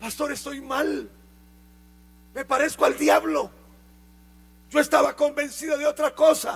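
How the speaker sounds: mock weeping, tearful crying voice. Retelling how someone came up in tears to confess: imitating someone crying.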